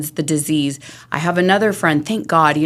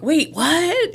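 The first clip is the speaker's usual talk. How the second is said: high-pitched startled double take; mock disbelief; 10 semitones higher than usual. Imitating people baffled by someone not drinking, high startled tone. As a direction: do the baffled friend. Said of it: "people will be like".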